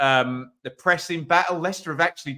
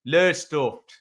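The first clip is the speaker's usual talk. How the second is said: badly done Lowestoft local accent; a rough stab at the Lowestoft accent. Shown as a demonstration. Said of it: "as they say it there".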